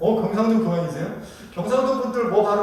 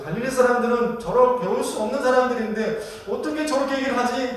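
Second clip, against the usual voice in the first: higher-pitched, mock belittling question; disdainful disbelief; 4 semitones higher than usual. Onlookers doubt unschooled Galileans could speak so, mock disdainful. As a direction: play a crowd looking down on Galileans. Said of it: "지금 이러고 있었던 겁니다".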